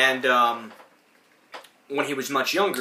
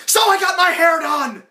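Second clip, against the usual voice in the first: much higher, louder fake woman voice; fake lady cry; 8 dB louder than usual. Ed in drag fooling the owner, much higher fake lady voice. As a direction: bluff through the question brightly. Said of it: "and he's like".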